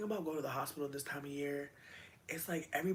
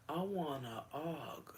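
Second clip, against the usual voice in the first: whispered song quote; slower than usual. Retold or imitated. Quoting song again.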